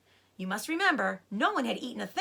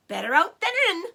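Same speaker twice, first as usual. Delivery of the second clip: Badger; 8 semitones higher, 7 dB louder than usual. Badger jokes after belch.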